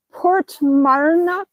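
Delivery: Port Marnock said slowly, drawn out; slow, deliberate Port Marnock; careful pronunciation. Real, not acted. Carefully pronouncing an Irish place name.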